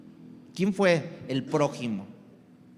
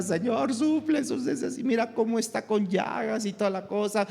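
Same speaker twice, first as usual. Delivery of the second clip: mock prayer; 6 semitones higher, faster than usual.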